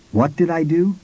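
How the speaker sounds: shocked disbelief. Acted. Narrator stunned by dog story.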